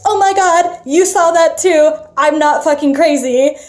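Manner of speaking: high, loud, urgent insistence; retold freaking out. Speaker to companion who saw it too, freaking out. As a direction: plead for confirmation, worked up. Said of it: "he's freaking the fuck out".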